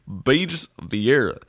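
hammed-up host welcome; cheesy host voice. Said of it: "That's better".

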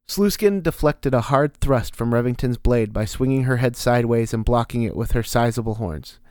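usual speaking voice

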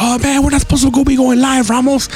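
high mock whiny complaint; mock whiny teammates. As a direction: whine like an upset teammate. Teammates complaining he hit hard.

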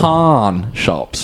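Pawn with a clear open aw vowel, not porn; careful pawn shops. Shown as a demonstration. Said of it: "Oh, yeah, my accent".

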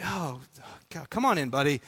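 softened, indulgent welcome; welcoming father. Pretend. Father lets six-year-old son into his office, welcoming. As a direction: drop the upset and welcome him in.

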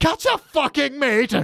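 high, slow, incredulous outburst; repeating the insult in shock; outraged disbelief. Retold or imitated. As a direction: shriek it back in disbelief. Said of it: "And he's like".

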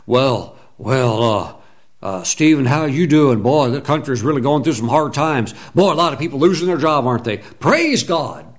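mock complainer. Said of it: "people that are known to be like that".

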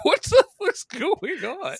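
drawn-out high nasal whine of Napoleon Dynamite; slow, high and whiny, like Napoleon Dynamite. Retold or imitated. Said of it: "it's just like".

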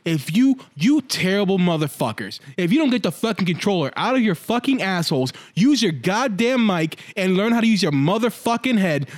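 building, rising-pitch rant at teammates; retold gaming tirade. Gamer ranting at his team over the mic, building fury. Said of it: "I go on a tirade".

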